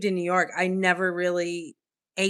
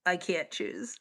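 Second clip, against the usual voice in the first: whispered indecision; 6 dB quieter than usual. Real, not acted. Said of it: "whispered indecision".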